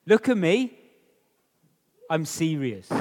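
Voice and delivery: parent being serious. Retold or imitated. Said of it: "your mum or dad say this to you".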